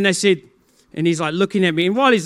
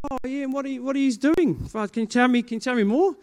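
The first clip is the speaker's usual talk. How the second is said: mock innocent; 6 semitones higher than usual. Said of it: "I'm like".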